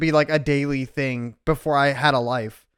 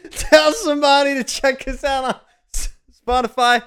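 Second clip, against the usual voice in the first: higher, brighter retake of the plug; redone outro; 7 semitones higher than usual. Shown as a demonstration. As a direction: redo the plug higher after fumbling. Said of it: "God damn it".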